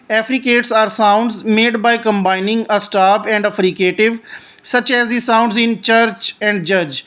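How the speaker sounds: reads each English word slowly and deliberately; slow textbook reading. Shown as a demonstration. Teacher reading the definition aloud to students, slow and deliberate. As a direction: read it out like a careful textbook recitation.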